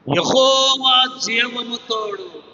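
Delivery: slow, deliberate and weighty; solemn oath. Retold or imitated. Widow swearing to Elijah by the Lord, slow solemn oath. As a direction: swear it slowly, each word heavy.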